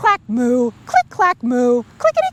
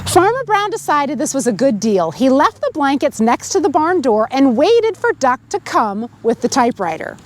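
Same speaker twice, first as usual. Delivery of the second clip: put-on lively read-aloud to children; storybook reading. A narrator's reading. Reader telling children the farm story, lively read-aloud. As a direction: tell it like a bedtime story. Reads picture book to kids.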